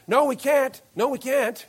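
a hint of beaten players groaning back; mock players' reply. Preacher voicing losing players answering cheerleaders, mock groan. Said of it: "football players shouting back".

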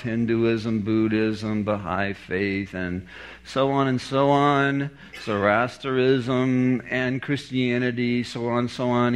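cool professor's roll call, lightly imitated; super cool professor. Professor naming off many religions, mildly super cool. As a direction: list them off with understated cool. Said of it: "he speaks in this super cool voice".

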